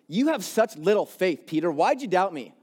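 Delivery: a touch of a scolding, condemning tone; mildly stern rebuke; harsh stern Jesus. Shown as a demonstration. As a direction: scold him a little for his weak faith. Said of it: "some of our perspective of who God is".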